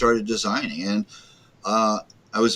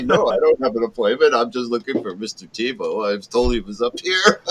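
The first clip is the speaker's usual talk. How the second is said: laughing; 3 semitones higher than usual. Retold or imitated. Retelling own reply, laughing.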